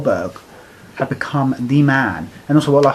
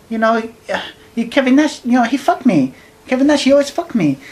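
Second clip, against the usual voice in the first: higher, excited mock rant; imitating Hoovy; 8 semitones higher than usual. Co-host imitating Hoovy's interview complaint, high and whiny. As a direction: ape a whining wrestler blaming Nash. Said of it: "Goes like this in an interview".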